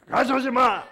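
loud, high angry command; harsh wrong reading. Shown as a demonstration. Preacher shows how not to read it, shouting angrily. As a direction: shout it as a stern ban. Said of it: "이렇게 읽지 마라".

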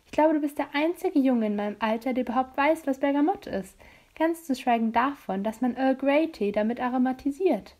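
hint of a pert girl's voice; leicht gespielte Clary. (leicht angedeutete Mädchenstimme)

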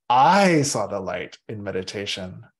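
I stressed with a rise. Shown as a demonstration. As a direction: lean on I as if it's all about you. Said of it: "You can emphasize any of those words".

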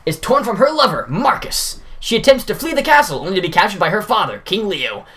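lightly voiced booming troupe boss; Baku voice. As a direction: announce to the crowd like a showman. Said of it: "my Baku voice".

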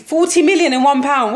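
laughing through the words; can't stop laughing at the price. Real, not acted. Mocking the absurd bid fee.

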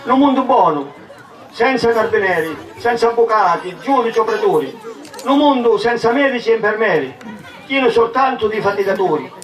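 rising, swelling poem recital; theatrical swelling poetry reading. Acted. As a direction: declaim each line to the crowd. Recites a dialect poem aloud.

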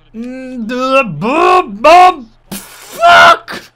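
explosive angry scream, high and loud; furious shout. Real, not acted. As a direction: scream it out at the miss. Gamer rages at miss. (woedende schreeuw om de gemiste kans)

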